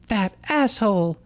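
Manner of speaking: high, hammed-up snarl; a hammed-up furious snarl at Ash. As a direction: spit it out in mock fury. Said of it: "Dawn snarled furiously".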